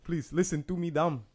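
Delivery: a hint of pleading African woman; old African lady. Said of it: "some old African lady?".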